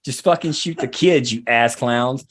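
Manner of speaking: lightly voiced presidential command; barking an order to the troops, half-hearted; mock Obama order. Obama ordering troops, a hint of a commander. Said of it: "direct order from Obama".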